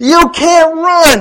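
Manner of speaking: high, slow, loud, drawn-out heckling yell.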